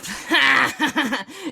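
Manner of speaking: a villain's gloating laugh; gangster cackle. Acted. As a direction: cackle like a thirties mobster. Gangster laughs after stick-up.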